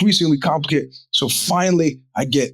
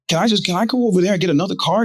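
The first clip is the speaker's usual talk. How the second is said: higher, hurried, exasperated asking; exasperated plea; 6 semitones higher, faster than usual. Retold or imitated. Buyer asking dealer to let him shop elsewhere, exasperated. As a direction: rush the question, pitched up in frustration.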